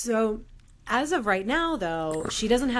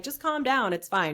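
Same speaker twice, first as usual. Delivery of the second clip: mock dismissive; 4 semitones higher than usual. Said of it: "never be like".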